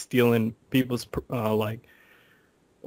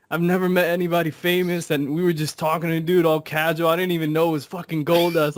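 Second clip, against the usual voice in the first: imitating a worked-up friend, pitched up; acted-out flustered outpouring; going off; 5 semitones higher, 3 dB louder than usual. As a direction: retell an excited rant, higher than usual. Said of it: "He started going off like".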